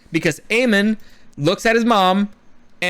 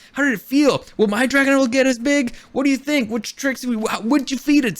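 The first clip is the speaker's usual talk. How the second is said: eager son; 3 semitones higher than usual. Retold or imitated. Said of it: "He should have been like".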